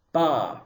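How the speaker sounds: BA with a long, open ah; long ah syllable. Shown as a demonstration. Teacher sounding out beit with kamatz, long BA. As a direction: sound out BA as one drawn-out syllable. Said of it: "beit with kamatz sounds like".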